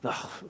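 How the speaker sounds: soft, low-key snarling grunt; quiet imitation of a snarl; imitated snarl. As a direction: grunt in mock disgust at a passer-by. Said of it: "the man kind of snarls at him".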